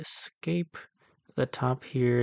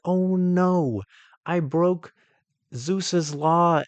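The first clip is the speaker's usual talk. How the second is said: mock guilty Damon; 6 semitones higher, 5 dB louder, much slower than usual. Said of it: "he's like".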